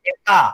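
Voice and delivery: "డెకా" repeated clearly with a long final aa; model pronunciation. Shown as a demonstration. Teacher repeating the prefix after students, "డెకా" clearly sounded out. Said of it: "డెకా అని పలకాలి".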